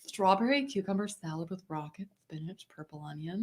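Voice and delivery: drag queen voice. Pretend. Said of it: "Why does it have to be said that way?".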